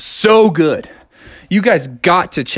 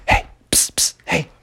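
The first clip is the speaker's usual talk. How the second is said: whispered psst to a friend; 4 dB quieter than usual. Retold or imitated. Froggy whispering to Bucky during silent reading. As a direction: sneak a whisper across the desk. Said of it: "And he was like".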